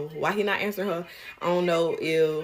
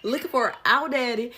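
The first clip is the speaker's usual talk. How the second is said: laughing; 5 semitones higher than usual. Real, not acted. Incredulous laughing rant.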